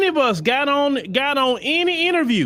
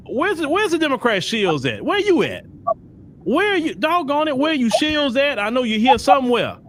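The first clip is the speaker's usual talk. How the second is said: mock searching call; 2 semitones higher than usual. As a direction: call out as if hunting for someone hiding. Calling out for absent opponents.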